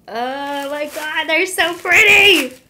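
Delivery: slow, high gush building to a loud squeal; overwhelmed with delight, voice climbing. Real, not acted. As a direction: draw it out, swelling into an excited squeal. Gushing over the new knives.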